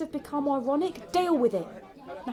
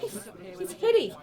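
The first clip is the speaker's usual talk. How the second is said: put-on Aussie twang; silly Australian accent; 6 semitones higher than usual. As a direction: play up a fake Australian accent. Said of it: "You can drop that silly accent".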